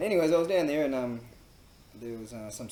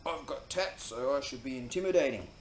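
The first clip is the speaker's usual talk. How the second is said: higher, lightly hammed-up hard man; mock tough guy; 4 semitones higher, 6 dB louder than usual. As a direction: lightly put on a would-be intimidating bloke. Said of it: "giving me the whole".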